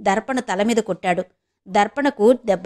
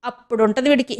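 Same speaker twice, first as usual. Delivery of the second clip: mild mock shouting; higher-pitched furious threat, lightly voiced; 3 semitones higher than usual. Furious girl threatens to go to the police, mild shout. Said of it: "అని అరుస్తూ".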